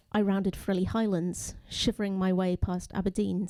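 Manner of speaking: measured poem reading, phrase by phrase; poetry reading. Acted. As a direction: read the poem deliberately, pausing between images. Reads own poem aloud.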